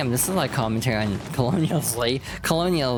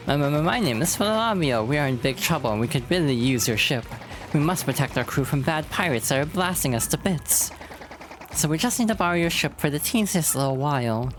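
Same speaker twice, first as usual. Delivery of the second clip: slightly higher, stammering character voice; lightly voiced nervous pleader; 3 semitones higher than usual. Sailor begging to borrow a ship, nervous pleading. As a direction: plead your case with a nervous stutter.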